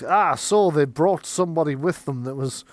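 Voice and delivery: suspicious apprentice jumping on proof; accusing Magnus. Acted. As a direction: press the accusation loudly. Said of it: "Magnus is like".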